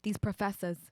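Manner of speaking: mock Boston accent. Astronaut recounting the big day, mock Boston. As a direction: tell it in a Boston accent with long pauses.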